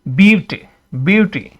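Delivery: ब्यूटी with the opening vowel emphasized; stressed syllable. Shown as a demonstration. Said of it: "इसको आपने stress कर रहे हैं".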